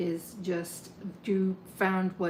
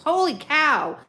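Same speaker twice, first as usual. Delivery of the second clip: loud, high burst of delight; excited; 7 semitones higher, 10 dB louder, slower than usual. Real, not acted. Tarot reader thrilled by the cards, excited shout. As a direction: blurt it out, genuinely thrilled. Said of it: "that just got me so excited".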